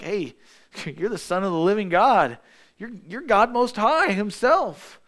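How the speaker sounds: an awed disciple's declaration; excited confession. Retold or imitated. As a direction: proclaim it with rising wonder.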